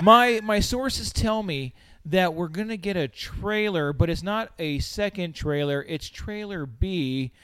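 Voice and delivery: slow, hushed insider voice; arch knowing insinuation. Retold or imitated. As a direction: lean in like a smug leaker. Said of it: "I can't even do it as slow as him".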